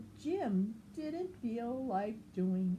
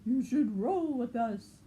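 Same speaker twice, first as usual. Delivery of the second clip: louder playful invitation; zebras inviting; 4 semitones higher, 6 dB louder than usual. Acted. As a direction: call it out boldly. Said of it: "said the zebras".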